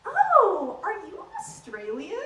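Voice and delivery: mock Aussie asking a question; cheery Aussie query; a stand-up slipping into an Aussie twang; Australian accent. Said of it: "next accent".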